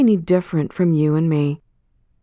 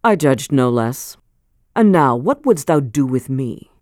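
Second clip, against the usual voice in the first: put-on cold old man; 3 semitones lower than usual. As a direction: let it sink low and cold. Chillingworth questions Hester.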